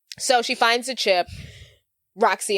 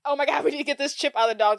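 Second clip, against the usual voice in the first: fast, higher-pitched retold fluster; mock panic; 6 semitones higher, much faster than usual. Retelling friends desperate to retrieve the chip, mock panic. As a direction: rush it like a mock emergency. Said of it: "while they're freaking out".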